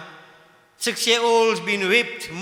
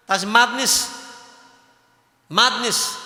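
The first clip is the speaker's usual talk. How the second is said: rising indignation, louder on madness; real anger; 4 dB louder, slower than usual. Real, not acted. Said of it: "I'm getting angry".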